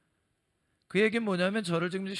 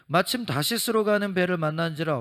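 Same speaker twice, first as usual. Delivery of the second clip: louder proclaiming Bible reading; loud scripture reading; 6 dB louder than usual. Acted. Preacher reading Jonah to the congregation, loud proclamation. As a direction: read the verse out to the whole congregation.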